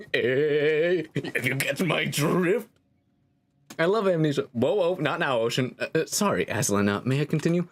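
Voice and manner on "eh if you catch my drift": nudging pun. Pretend. Narrator repeating the pun to the player, nudging questioning delivery. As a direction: nudge them with a drawn-out questioning lilt.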